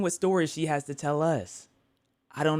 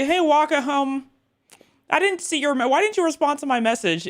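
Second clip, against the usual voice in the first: squeaky whiny viewer voice, much higher; high mock viewer voice; 12 semitones higher, 3 dB louder than usual. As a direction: play the annoyed fan, pitched way up.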